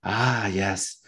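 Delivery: put-on slow, drawn-out German accent; lightly put-on German accent, savoring each word; German tour guide accent. Tour guide greeting visitors in the crypt, slow German accent. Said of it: "this German guy is giving the tour, and he's like".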